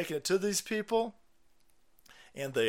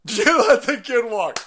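laughing it out slowly, louder; laughing repeat; 7 semitones higher, 9 dB louder, slower than usual. Real, not acted. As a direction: savour the line through real laughter. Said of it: "repeat through laughter".

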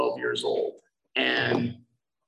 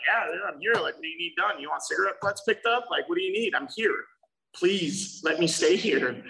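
eager pleading; 4 semitones higher than usual. Retold or imitated. Begging to help at club.

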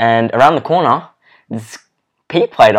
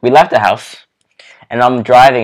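hushed, unvoiced telling; whispering. Real, not acted. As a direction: whisper it like a secret. Whispered storytelling.

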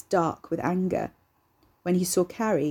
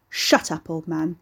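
snarled; slower than usual. Acted. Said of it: "he snarled".

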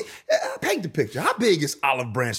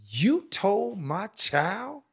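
slow, drawn-out mock scolding, pitched a touch higher; imitating the older lady; 4 semitones higher, slower than usual. Ex-player retelling how the older woman confronted him, slow mock scolding. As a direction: stretch each word like a stern auntie calling him out. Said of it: "she said it just like this".

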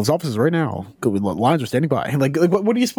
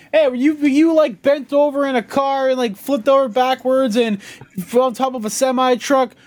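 lawyer commercial; 9 semitones higher than usual. Retold or imitated. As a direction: pitch it like a sleazy TV lawyer. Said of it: "the lawyer commercials were like".

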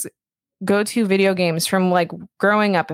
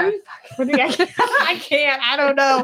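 scared; 7 semitones higher than usual. Real, not acted. Thinks she spoiled the movie.

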